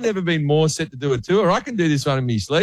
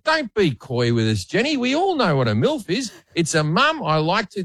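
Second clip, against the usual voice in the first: higher, mock-knowing tease; teasing host voice; 5 semitones higher than usual. Host teasing a contestant in front of everyone, higher and cheeky. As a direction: rib her like a cheeky host. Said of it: "And I said".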